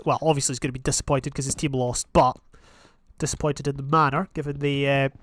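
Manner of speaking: lightly put-on pundit summing up the match; a hint of a London-accented sports commentator; match commentary. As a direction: wrap up the game like a TV football pundit. Mock football commentary wrap-up.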